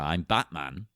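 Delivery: lightly imitated deep voice; a hint of a low superhero voice; Batman. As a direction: drop the pitch a touch, mock-heroic. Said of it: "guy with the insanely deep voice".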